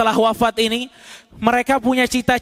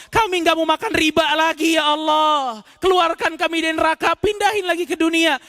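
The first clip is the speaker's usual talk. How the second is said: pleading shout; 6 semitones higher than usual. Acted. Damned pleading to return.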